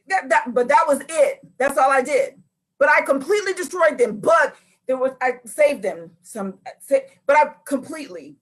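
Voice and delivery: protest, stumbling over your own excuse; defensive excuses. Acted. Preacher plays Saul justifying himself, defensive.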